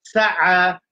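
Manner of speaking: "Sa'a" with the last a held long and level; long final vowel. Shown as a demonstration. Teacher showing the role of alif, "Sa'a" drawn out. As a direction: sustain the closing a of "Sa'a". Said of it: "ça permet un rôle, alif".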